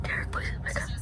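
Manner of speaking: urgent pleading whisper; whispered plea. Real, not acted. Viewer pleading with the screen in a whisper. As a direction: beg it under the breath, tense.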